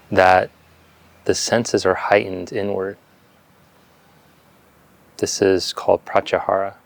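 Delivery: calm meditation guidance with long silences between phrases; unhurried yoga teacher leading breath awareness; guided meditation. Real, not acted. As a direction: guide them gently into stillness, leaving space after each phrase.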